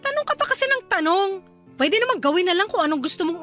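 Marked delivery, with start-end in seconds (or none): 0.0-1.3 exasperated, voice lifting at the start; irritated retort. Acted. Wife fed up with husband's questions, exasperated. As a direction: cut back at him in annoyance. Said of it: "magtaas ng boses".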